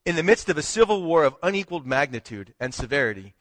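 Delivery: measured, formal reading of a historic text; formal proclamation reading. Acted. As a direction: read it like an official decree to the congregation. Reads Lincoln's proclamation aloud.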